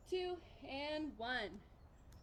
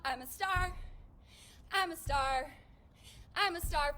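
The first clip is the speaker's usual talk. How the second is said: cheering while jumping; 3 semitones higher, 5 dB louder than usual. Shown as a demonstration. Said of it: "bonus points if you say, "I'm a star." As you jump".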